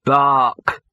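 loud word turned into a bark. Acted. Gaspode covering his speech, sudden loud bark. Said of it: "managed to turn it into a".

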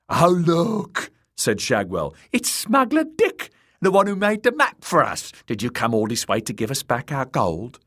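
high, loud sneering jester voice; mocking jester. A narrator's reading. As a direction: taunt him cruelly. Shagwell taunting the victim.

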